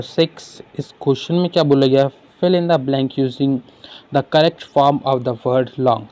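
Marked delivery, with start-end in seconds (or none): 2.4-6.0 slow, deliberate question read-out; measured exam-paper reading. Acted. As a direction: read each word out slowly for the class. Reads exam question aloud.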